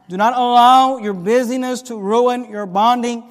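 loud, driving sermon delivery; emphatic preaching. Acted. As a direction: drive the warning home to the congregation. Preaches with full force.

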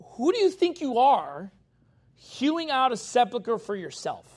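a hint of the Lord scolding a proud man; God rebuking. Preacher voicing God rebuking Shebna, lightly stern. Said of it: "because he's like".

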